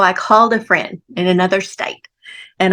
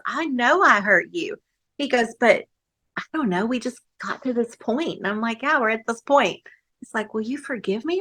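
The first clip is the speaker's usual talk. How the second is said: soft apology; 2 semitones higher, 7 dB quieter than usual. Retold or imitated. Husband's soft apology retold.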